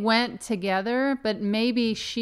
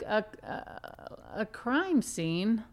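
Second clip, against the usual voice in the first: baffled, stammering; 5 semitones higher than usual. Retold or imitated. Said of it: "I would be like".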